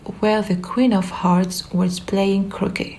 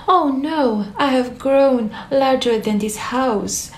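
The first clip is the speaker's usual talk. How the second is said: much higher, alarmed cry; cried out in dismay; 5 semitones higher than usual. Acted. Alice stuck in the house, crying out high in alarm. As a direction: panic at growing too big. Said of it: "she cried".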